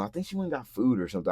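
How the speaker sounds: usual speaking voice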